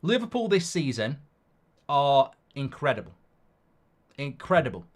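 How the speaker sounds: talking through gritted teeth; forced praise through clenched teeth. Acted. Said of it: "I'm talking through gritted teeth".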